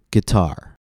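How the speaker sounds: "guitar" stressed on the second syllable; stress exception. Shown as a demonstration. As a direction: lean on the end syllable of "guitar". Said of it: "there are exceptions".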